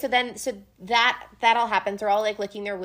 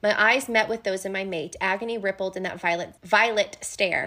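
reading the quote; 2 semitones lower than usual. Acted. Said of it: "as Feyre has this line".

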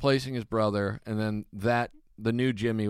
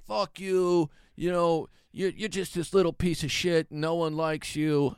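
higher, hammed-up insult; angry rival; 7 semitones higher, slower than usual. Comic imitating Joey cursing him in the hallway, higher. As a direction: spit it out like a sore loser.

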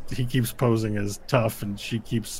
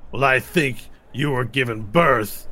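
insulting orc; 2 semitones higher, 3 dB louder than usual. Acted.

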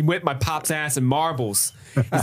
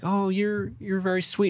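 mock sweet high girl voice; girlish voice; 9 semitones higher than usual. Imitating Mabel cooing at Richie in a high voice. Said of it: "she's like".

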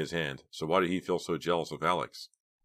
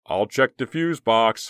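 calm; 6 semitones higher, 8 dB louder, slower than usual. A narrator's reading. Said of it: "Philip's voice said calmly".

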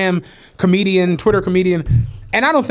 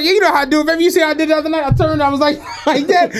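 cocky LeBron; 7 semitones higher, much faster than usual. Retold or imitated. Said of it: "He's like".

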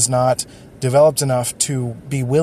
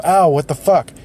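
louder, snappier retold outburst at the toe-stepper; mock angry yell; 3 semitones higher, 5 dB louder than usual. Person with a stepped-on toe yells at the offender, in a mock angry yell. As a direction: throw the curse back, fully hammed-up. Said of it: "they go".

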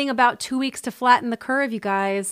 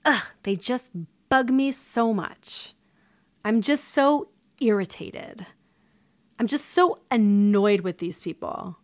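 put-on Valley Girl inflection. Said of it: "that little Valley Girl inflection".

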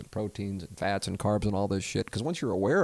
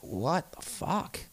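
high, slow and drawn out in disbelief; stunned disbelief; 10 semitones higher, 4 dB quieter, much slower than usual. Retold or imitated. Hearing his old radio shows, slow aghast disbelief. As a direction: let it rise, slow and aghast. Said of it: "and I'm just like".

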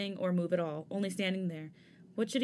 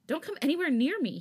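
sudden yell, higher and louder; 8 semitones higher, 5 dB louder than usual. A narrator's reading. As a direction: bark the warning to keep him back. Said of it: "when Changbin suddenly yelled".

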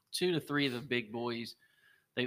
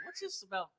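loud, slow, laughing mock outrage; dad impression; 9 semitones higher, 10 dB louder, slower than usual. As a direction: imitate dad with a big incredulous shout. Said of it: "my dad's like".

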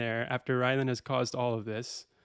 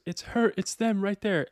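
higher, louder mock scream; imitated scream; 8 semitones higher, 5 dB louder than usual. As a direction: cry out as if pointing out culprits. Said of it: "she screams, she goes".

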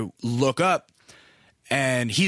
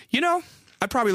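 eager dad; 12 semitones higher, faster than usual. Retold or imitated. Dad explains his beach plan.

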